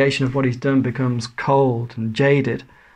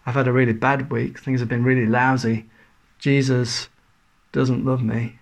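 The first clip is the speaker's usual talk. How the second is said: mock gloomy. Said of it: "that's a dreadful tune".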